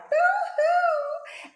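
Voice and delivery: high, loud cartoon wail; mock crying. A narrator's reading. Scared rat woken by the sneeze, hammed-up cry. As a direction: wail boo-hoo like a startled rat. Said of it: "who cried".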